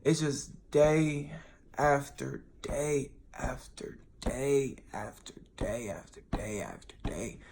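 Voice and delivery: slow, fading whisper of "day after day"; exhausted, tearful whisper; weary, near tears. Real, not acted. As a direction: drag it out, worn down to a whisper. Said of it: "I'm about to cry".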